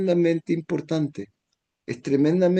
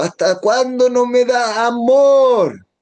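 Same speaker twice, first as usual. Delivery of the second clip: acted angry yell; 10 semitones higher, much slower than usual. Spouse shouting insults at partner, acted angry yell. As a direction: hurl insults at your partner. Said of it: "uno puede gritar al otro".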